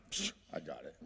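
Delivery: a dazed, tiny voice; meek mumble. Retold or imitated. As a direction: mumble it like you didn't hear a thing. Dazed driver answers instructions.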